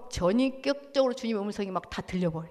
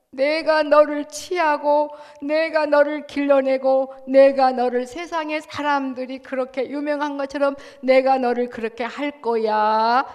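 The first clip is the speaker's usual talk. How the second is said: voicing God's promise; 3 semitones higher, 5 dB louder than usual. Pastor voices God's promise.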